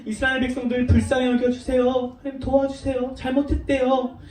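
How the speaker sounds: acted earnest prayer, a little softened; gently imploring prayer voice; pleading prayer. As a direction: plead with God on others' behalf. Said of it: "기도했어요".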